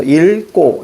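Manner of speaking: 읽고 as il-kko, tense second syllable; reading demo. Shown as a demonstration. Teacher shows how to read it, pronunciation demo of 읽고. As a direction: say 읽고 keeping the l, then tense kk. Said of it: "이렇게 읽어야죠".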